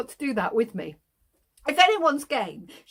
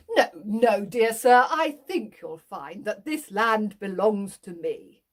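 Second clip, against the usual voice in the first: pompous farmer; 2 semitones lower, 3 dB louder than usual. Acted. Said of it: "Farmer Town stands there and he says".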